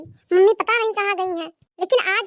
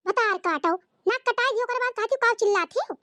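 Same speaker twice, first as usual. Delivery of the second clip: scolding mother-in-law; 4 semitones higher than usual. Acted. Mother-in-law scolding her daughter-in-law, lightly voiced. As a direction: play the nagging village saas.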